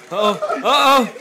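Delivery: loud rising uh oh; hyped warning call; excited uh oh. Real, not acted. Fight starting again.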